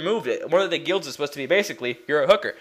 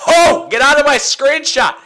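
loud exasperated stage whisper; shouted whisper; 8 semitones higher, 9 dB louder than usual. Real, not acted. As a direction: shoo them out in a loud hiss. Someone in screenshot.

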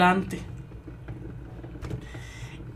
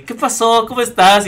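higher polite hello; forced smile greeting; 6 semitones higher than usual. Retold or imitated. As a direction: smile through it. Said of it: "tratando como de sonreír".

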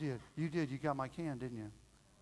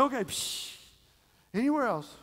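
higher, louder quick spray and question; brisk mom; 9 semitones higher, 8 dB louder than usual. Retold or imitated. Mom spraying under the bed for her son, brisk and loud. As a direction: play a mom briskly on the job.

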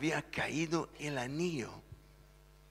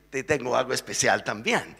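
laughing; 5 dB louder than usual. Acted. María answers from the bathroom.

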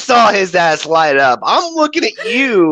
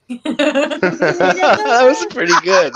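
mock spooky slow voice; 5 semitones higher, much slower than usual. Mimicking Kevin's slow voice.

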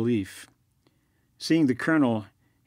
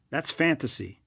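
dismissive whisper; 2 semitones higher than usual. Acted. Colonel dismisses warning.

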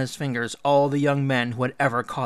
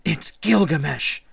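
raised, tearful complaint; sobbing; 4 semitones higher, 5 dB louder than usual. A narrator's reading. Ishtar at her father's feet, sobbing. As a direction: wail it to father. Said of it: "she sobbed".

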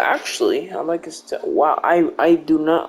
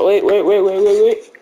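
urgent stop; 4 semitones higher, 5 dB louder than usual. Real, not acted. Stops the sign-off, loud.

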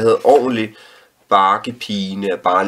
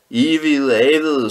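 higher, louder, drawn-out shout of "Ivede avede"; children shouting; 6 semitones higher, 4 dB louder, slower than usual. A narrator's reading. A child shouting "Ivede avede" at the storyteller, high and loud. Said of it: "skreg nogen".

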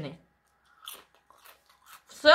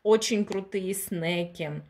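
ironic reading; 2 semitones lower, much slower than usual. Shown as a demonstration. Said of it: "написано".

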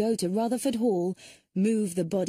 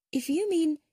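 much higher, offended outburst cut short; indignant surprise; 10 semitones higher than usual. Acted. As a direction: bristle at the accusation. Lucy reacts to being suspected.

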